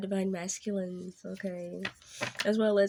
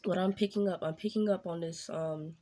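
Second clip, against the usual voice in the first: excited. Real, not acted. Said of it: "I feel this excitement".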